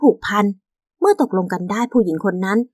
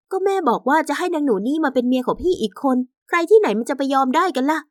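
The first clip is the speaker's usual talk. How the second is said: higher-pitched indignant wife; protesting young wife; 5 semitones higher than usual. Acted. Wife tells husband of his mother's plan, protesting. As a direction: object in a higher wife's voice.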